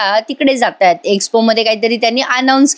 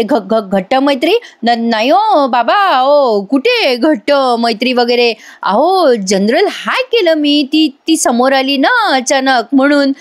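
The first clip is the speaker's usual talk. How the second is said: flustered stammer; 3 semitones higher, slower than usual. Retold or imitated. Priya stammering excuses to her father-in-law, nervous. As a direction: stumble over words like a caught girl.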